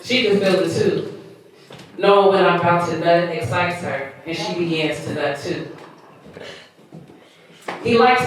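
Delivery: measured spoken-word reading; poem recitation. Acted. Poet reciting own piece to listeners, spoken-word reading.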